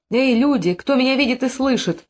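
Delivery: calling to onlookers. A narrator's reading. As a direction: call out for witnesses, voice lifted. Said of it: "обратилась она к присутствующим". (призывный возглас к толпе)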